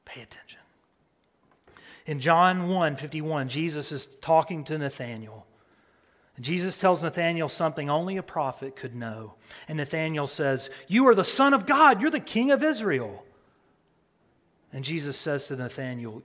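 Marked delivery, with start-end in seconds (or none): 0.1-0.6 hushed command; soft unvoiced call to attention; whispered. Real, not acted. Preacher hushes congregation. 10.9-13.3 higher, louder wonder; lifted voice of awestruck Nathanael; awed exclamation. Acted.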